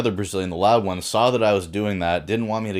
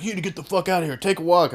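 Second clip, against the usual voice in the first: mock threatening order; 9 semitones higher, faster than usual. Viking dude telling them to leave.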